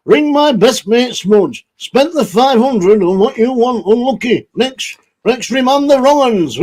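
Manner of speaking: a light put-on funny voice for the shout-outs. Vlogger reading shout-outs to viewers in a put-on voice. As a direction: read the names in a silly voice. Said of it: "let's do some shout-outs in this voice".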